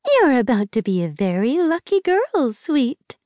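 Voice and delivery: high, sugary fake sweetness; falsely saccharine. A narrator's reading. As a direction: coo it like a fake friend. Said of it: "falsely saccharine".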